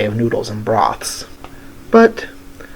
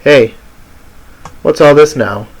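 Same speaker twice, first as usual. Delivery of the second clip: challenging call, slightly raised; 3 dB louder than usual. Acted. Jin to the monk outside the shop, calling out. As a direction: call out to question someone. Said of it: "Jin calls out".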